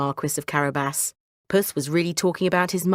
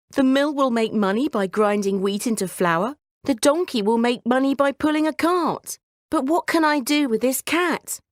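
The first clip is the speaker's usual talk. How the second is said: higher, tearful, self-pitying complaint; sobbing lament; 6 semitones higher than usual. Acted. Son left only a cat, tearful self-pity. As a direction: whine about the unfair inheritance. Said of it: "he sobbed".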